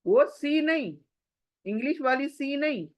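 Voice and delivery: teacher correcting a student; contrastive stress. Shown as a demonstration. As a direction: stress वो to mark the wrong sound. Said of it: "contrasting with English s".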